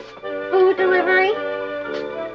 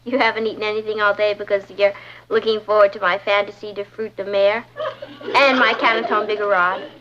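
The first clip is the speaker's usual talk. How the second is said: low, deflated recital; sinking dismay; 5 semitones lower than usual. Acted. Girl echoing boyfriend's dinner hopes by phone, dismayed. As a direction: repeat it back with sinking heart, pitched low. Repeats boyfriend's expectations with dread.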